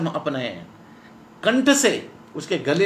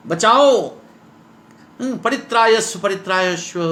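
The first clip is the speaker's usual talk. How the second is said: high, repeated stage calls; theatrical alarm, raised pitch; panicked cries for help; 3 semitones higher than usual. Acted. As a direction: call urgently for rescue, acting it out. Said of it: "घबराहट के साथ बड़े जोर से".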